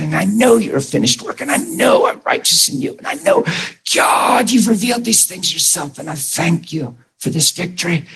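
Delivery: retold fervent prayer, voice climbing high; impassioned prayer. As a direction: pray it with rising urgency, pitch climbing. Retelling his desperate prayer aloud.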